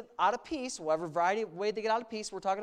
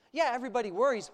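wry, conceding yeah; sarcastic agreement; much faster than usual. Acted. Pastor echoing the devil's line back to the congregation, wryly. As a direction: grant the point with a shrug before turning it. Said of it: "but everybody shouldn't".

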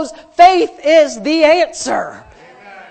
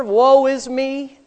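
Eeyore moping; slower than usual. Retold or imitated. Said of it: "The Eeyore spirit took over".

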